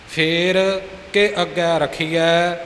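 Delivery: a small break after ਫੇਰ, then ਕੇ on its own; short pause after pher. Shown as a demonstration. Teacher showing the pause after ਫੇਰ in the recitation. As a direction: pause lightly between ਫੇਰ and ਕੇ. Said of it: "ਥੋੜ੍ਹਾ ਜਿਹਾ ਰੁਕ ਕੇ".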